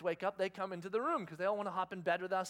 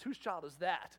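firmer, lower-pitched disapproval; disapproving question; 4 semitones lower, slower than usual. Retold or imitated. Shoppers judging his misbehaving child, disapproving question. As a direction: ask it as a judgmental onlooker. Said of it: "Right now, it's just".

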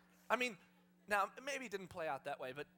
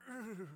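put-on tired old-horse grunt; horse's groan. Decrepit horse as a child climbs on, weary groan. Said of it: "the horse is gonna go".

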